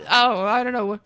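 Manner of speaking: caster voice put on with a light South African accent. Streamer casting for chat in a mild South African accent. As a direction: call the match like a South African guy. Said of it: "I will be turning into a South African guy".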